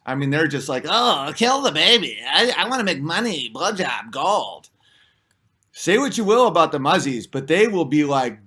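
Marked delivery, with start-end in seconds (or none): 0.9-4.7 put-on caricature voice, sinking lower and softer; mocking caricature of cowards. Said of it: "Most of them are cowards".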